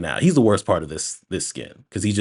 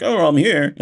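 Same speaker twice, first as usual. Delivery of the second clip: louder, higher hammed-up arrival call; mock grand entrance; 9 semitones higher, 6 dB louder than usual. Dad walks in out of nowhere, mock loud greeting. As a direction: announce yourself, imitating a surprise entrance.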